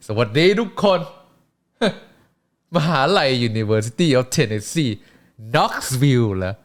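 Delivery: slow, laughing mocking villain; heel wrestler taunt. Wrestler taunting the Knoxville crowd, laughing and slow. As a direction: sneer at the hometown while laughing.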